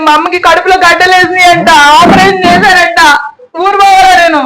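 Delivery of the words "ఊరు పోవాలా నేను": crying out the question, pleading; sobbing, desperate plea; tearful plea. Acted. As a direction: beg through tears. Wife pleading to visit sick mother.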